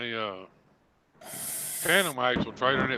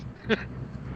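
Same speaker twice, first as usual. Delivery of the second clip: pained breathy laugh; 6 dB quieter than usual. Real, not acted. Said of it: "It fucking hurts".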